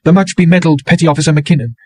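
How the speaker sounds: high, bitter mocking title; bitterly mocking woman. A narrator's reading. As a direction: sneer at his medals. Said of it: "She went on bitterly".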